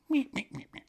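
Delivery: tiny high-pitched calf bleats; baby calf meeping. Acted. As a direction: squeak softly like a helpless little calf. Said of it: "comes over to the fence and is like".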